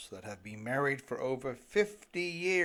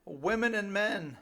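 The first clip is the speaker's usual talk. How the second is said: chapter title; 6 semitones higher than usual. Shown as a demonstration. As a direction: announce the chapter title, higher and brighter. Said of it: "Unsubstantiated advice about life from".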